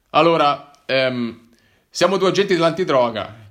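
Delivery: formal, serious officer revealing himself; lightly voiced police officer. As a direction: plainclothes agent informing the hiker, officially. Narcotics officer questions narrator.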